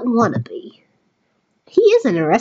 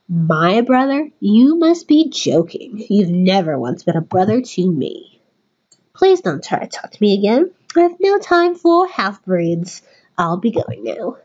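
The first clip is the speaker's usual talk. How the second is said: put-on British accent; 3 semitones lower than usual. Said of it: "he was getting a British accent".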